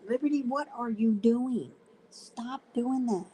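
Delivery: high pitched scolding of a pet; scolding the dog. Real, not acted. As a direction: tell the puppy off in a sing-song voice.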